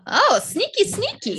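teasing sneaky. Real, not acted. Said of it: "Sneaky auntie".

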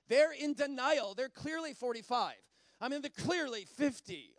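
loud; mock inner verdict. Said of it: "I thought in my mind, it's like".

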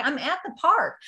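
high mock mom voice; a hint of a cheerful, oblivious mother; clueless mom. Mom oblivious on the phone, high and cheery. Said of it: "she's like".

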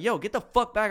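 half-hearted retold shout; retold yelling. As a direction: act out telling someone off at half volume. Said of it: "yelling at him".

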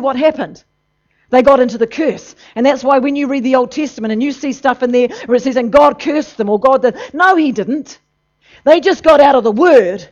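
loud, driving sermon voice; fiery preaching. Acted. Preacher pressing the congregation, full-force sermon.

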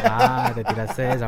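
laughing while talking. Real, not acted. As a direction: say it through a laugh. Reacts to friend's joke.

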